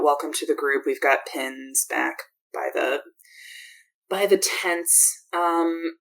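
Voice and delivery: lightly voiced weary camp leader, sarcastic; a hint of an exhausted, wry troupe leader; greeting the new recruit, a touch sardonic and worn out; Draxa, tired and dry.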